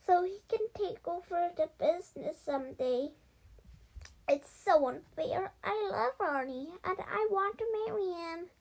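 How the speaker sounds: high, loud indignant mouse, building; acted heartbroken outburst, rising in pitch and volume; upset lovelorn mouse. A narrator's reading. Plays Hope, the mouse.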